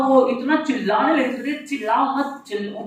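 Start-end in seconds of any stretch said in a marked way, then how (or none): 1.7-2.8 hushed plea to stop the yelling; soft pleading plea from the weary suitor; pleading softly. Retold or imitated. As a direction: beg them quietly to stop shouting. Lomov begs them not to shout.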